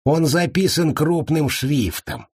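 high, drawn-out cheery report; cheerful announcement. A narrator's reading. Monk checking the guest list, cheerfully. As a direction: announce it slowly with good cheer. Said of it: "жизнерадостно сообщил".

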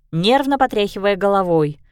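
ordinary delivery, nothing marked

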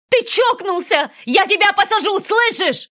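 high, loud cracking shout; mother screaming threats at the kidnapper; breaking-voiced scream. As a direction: scream until your voice breaks. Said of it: "срывающимся голосом".

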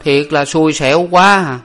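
high-pitched self-pitying grumble; grumbling. A narrator's reading. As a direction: complain to yourself about rotten luck. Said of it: "nói lầm bầm rằng".

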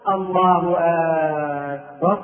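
أكبر with its first vowel drawn out into a long aa, like a question; wrong opening vowel. Shown as a demonstration. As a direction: stretch the start of أكبر: aakbar. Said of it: "لأنه يقول".

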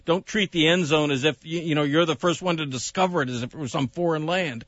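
running out of breath; winded, air running out. Real, not acted. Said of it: "Were you running out of breath there?".

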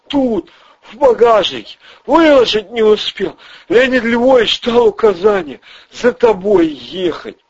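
high, jittery small-time crook; squeaky nervous crook voice; Ryzhy's voice. Acted. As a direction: pitch way up and talk fast like a nervous hustler. Ryzhy answers.

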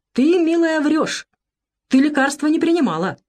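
выше и громче, строгий укор; отчитать бабу; строго. A narrator's reading. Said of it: "строго молвил". (строго)

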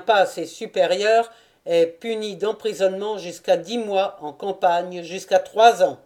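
even, uninflected rote recitation; reciting regulations. A narrator's reading. Soldier recites the desertion article to his officer, even recitation. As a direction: recite the rule from memory. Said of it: "Le soldat réfléchit une seconde et récita".

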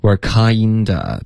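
"We're kinda" drawn out with loose stress; relaxed kinda. Shown as a demonstration. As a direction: model "We're kinda" slowly without heavy force. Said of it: "稍微放松一点".

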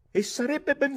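high, loud exclamation; emphatic approval. A narrator's reading. Captain approves throwing the boy out, high-pitched outburst. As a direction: jump in with loud agreement.

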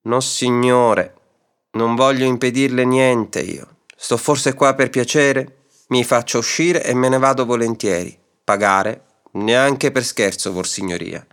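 slow, unhurried and unbothered; calm drawn-out reply, in no hurry at all; a placid, easygoing man teasing his angry landlord. Acted. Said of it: "rispose placido".

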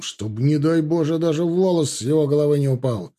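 pressed, insistent warning; emphatic. A narrator's reading. Egorov warns the captain to protect the prince, emphatic. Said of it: "произнёс он с нажимом".

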